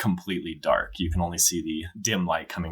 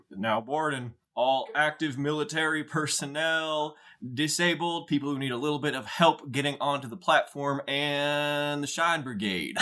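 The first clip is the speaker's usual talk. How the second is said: high-pitched gate announcer calling passengers; put-on airline announcement voice; boarding announcer; 9 semitones higher than usual.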